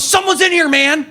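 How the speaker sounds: mock a startled man's yell from the stall; retold mock yell. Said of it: "he yelled at me".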